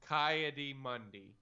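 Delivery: repeated slowly, word by word; slow and clear. Shown as a demonstration. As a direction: spell it out slowly for them. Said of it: "Say that again?".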